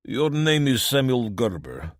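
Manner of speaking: put-on Dimitri calling out in a heavy Eastern European accent; thick Eastern European accent. A narrator's reading. Gang boss calls to the farmer, thick Eastern European accent. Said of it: "in a thick Eastern European accent".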